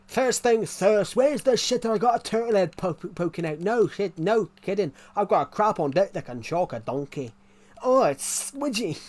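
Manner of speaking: high, loud mock Scottish accent; Fat Bastard. Reciting a film character's lines on stream, hammed-up Scottish accent. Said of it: "the Scottish character".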